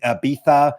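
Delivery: "Ibiza" said with a th, Castilian-style; affected Spanish pronunciation. Retold or imitated. Mocking Americans back from Spain, affected Spanish Ibiza with a th. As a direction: lisp the z in Ibiza as th. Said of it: "then suddenly they start saying".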